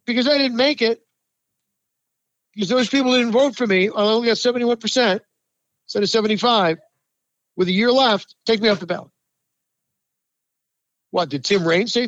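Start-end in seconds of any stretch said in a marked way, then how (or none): 0.1-9.1 mocking whiny quote. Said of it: "you want to insult those voters by saying".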